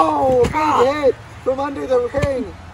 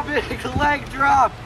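shouting; much slower than usual. Acted. Repeats slow shouted.

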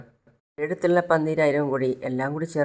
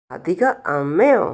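surprised; 4 dB louder, slower than usual. Acted. Child surprised at new name.

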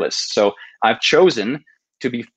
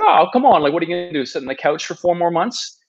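teasing push; 5 semitones higher than usual. Retold or imitated. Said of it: "And he's like".

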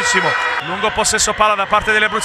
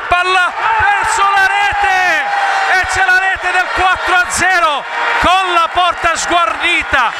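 goal scream; 5 semitones higher than usual. Real, not acted. Goal call in futsal commentary.

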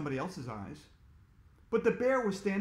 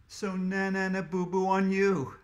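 singsong taunt; teasing; 4 dB louder than usual. Real, not acted. Teasing listeners.

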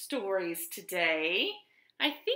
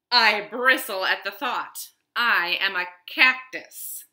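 prickly cactus; 6 dB louder than usual. Acted. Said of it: "said the cactus".

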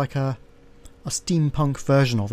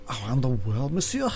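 French servant voice. Acted. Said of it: "maybe I'll try and do the voices".

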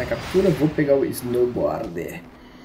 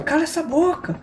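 mock shout; 13 semitones higher than usual. A narrator's reading. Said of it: "gritou pra sogra".

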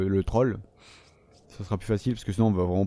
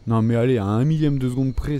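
indignant outburst, louder; loud protest; 7 dB louder than usual. Real, not acted. Gamer protesting a near hit to viewers, loud indignant. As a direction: protest loudly that it was unfair.

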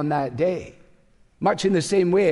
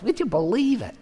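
lightly imitated Cleveland accent, a bit higher; 5 semitones higher than usual. Older friend's catchphrase, a light Cleveland accent. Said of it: "in a very sort of Cleveland voice".

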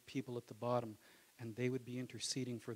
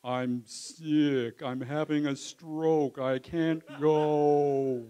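panicked excuses; 2 semitones higher, 11 dB louder, much slower than usual. Retold or imitated. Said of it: "your head's trying to think of reasons".

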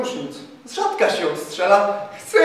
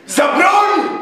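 a sharp battle cry, much higher and louder; shouted command; 8 semitones higher, 5 dB louder than usual. A narrator's reading. Captain rallying his half battalion, loud shout. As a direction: bark the call to arms. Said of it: "krzyknął".

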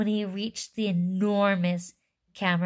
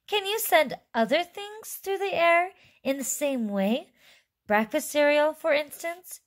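high-pitched eager questioning; excited shouted question; 9 semitones higher than usual. A narrator's reading. Boy asks Wonka about sending other things, high eager shout. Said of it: "he shouted".

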